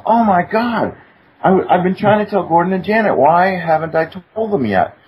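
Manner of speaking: a man suddenly remembering his urgent task; retold alarm. Retold alarm, forgetting to warn friends.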